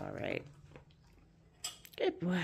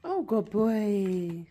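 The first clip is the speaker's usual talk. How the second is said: slow, louder, stretched praise; drawn-out praise; 3 semitones higher, 5 dB louder, much slower than usual. Real, not acted. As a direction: stretch out the oh like a proud owner. Praising the dog warmly.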